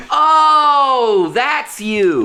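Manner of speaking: high, loud mock gasp of recognition; mock surprise. Friend recognizing a partner by her feet, mock surprise. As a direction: squeal it like you just spotted someone. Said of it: "and you're like".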